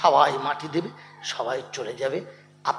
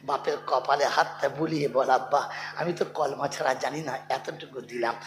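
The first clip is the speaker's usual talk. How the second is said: gentle counsel; 3 dB quieter than usual. Acted. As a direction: ease down to tender advice. Tender advice after shouting. (নরম, ধীর স্বরে উপদেশ)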